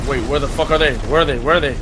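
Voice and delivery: loud. Real, not acted. Searching for enemies mid-fight.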